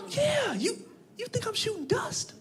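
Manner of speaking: high, hushed disbelief; incredulous. Retold or imitated. Answering dude who asked if he still goes, incredulous. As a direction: squeak it softly, as if affronted. Taken aback by intimate question.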